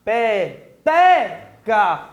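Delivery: "Peteca" split into slow syllables, TE punched. Shown as a demonstration. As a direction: break "Peteca" into pe, te, ca, stretching each, strongest on te. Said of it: "fazer a separação silábica". ("Peteca" bem devagar, sílaba por sílaba, com força no "te")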